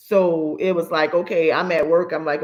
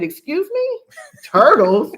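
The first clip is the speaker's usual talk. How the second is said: high, disbelieving "Excuse me?" then a loud "Turtles?"; retelling her shocked reply to her son's excuse, incredulous; 11 semitones higher, 6 dB louder, slower than usual. Retold or imitated. Mother retelling her shock at son's turtle excuse, incredulous. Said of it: "I said".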